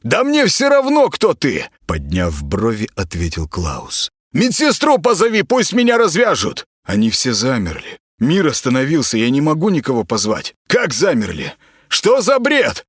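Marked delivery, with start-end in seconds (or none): 0.0-1.6 high, brash and rude, hurling insults; high, scornful voice of a bratty celebrity patient. Acted. Klaus voice. 4.3-6.6 high, brash and rude, hurling insults; high, scornful voice of a bratty celebrity patient. Acted. Klaus voice. 10.7-12.8 high, indignant disbelief. Acted. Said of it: "возмутился Клаус".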